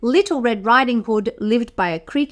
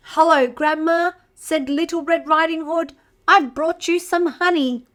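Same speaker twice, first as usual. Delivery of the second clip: put-on higher, sweet girl voice; little girl; 5 semitones higher than usual. Red Riding Hood greeting Grandma, higher girlish voice. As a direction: chirp it like a small girl.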